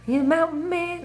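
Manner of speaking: teasing high question. Real, not acted. Teasing a viewer.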